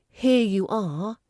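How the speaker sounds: "Here you are" drawn out slowly, ending on a rise; linked HERE YOU. Shown as a demonstration. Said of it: "there's strong linking between the here and the you".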